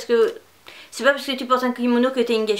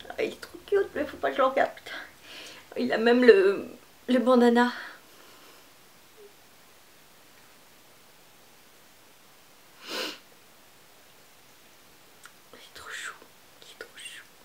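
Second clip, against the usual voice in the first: tearful, near crying, gushing effusively; 4 dB quieter than usual. Unboxing a subscriber's parcel on video, a creator speaks on the verge of tears. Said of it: "je vais pleurer".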